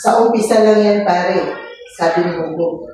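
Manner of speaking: masiglang pagbabasa ng kuwento sa mga bata; pagbasa ng kwento. A narrator's reading. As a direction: basahin nang malinaw at buhay, parang guro sa klase. (guro na nagbabasa ng kuwento sa mga bata, masigla)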